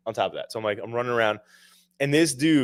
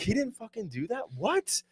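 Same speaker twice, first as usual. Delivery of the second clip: pitched way up, squeaky mock outrage; mock outraged disbelief; 11 semitones higher, 8 dB quieter than usual. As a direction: play it as fake shock at the chef.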